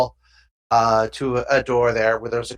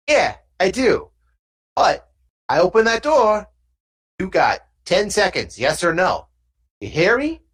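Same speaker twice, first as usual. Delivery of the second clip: lightly voiced thug setting an ultimatum; a hint of street tough, insistent; thug warning; 6 semitones higher than usual. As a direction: warn like a gangster with the upper hand.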